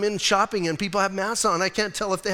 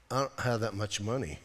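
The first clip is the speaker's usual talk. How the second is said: stunned; 7 semitones lower, 8 dB quieter than usual. Retold or imitated. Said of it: "walking out of the office kinda stunned".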